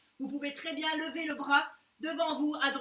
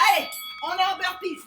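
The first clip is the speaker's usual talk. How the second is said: gym bro; 4 semitones higher, 6 dB louder, faster than usual. Real, not acted. Coach launches burpees round.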